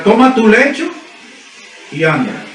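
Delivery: a firm, commanding "Toma tu lecho"; commanding order. Retold or imitated. Jesus commands the sick man to rise, firm. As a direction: give it as a clear order. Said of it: "Es una orden".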